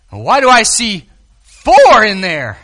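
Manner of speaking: slow, loud amazed question; astonished. Retold or imitated. King staring into the furnace, slow and amazed. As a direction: drag out the amazement. King sees a fourth man.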